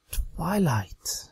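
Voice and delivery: mumbled under the breath. Acted. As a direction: barely say her name. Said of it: "she mumbled".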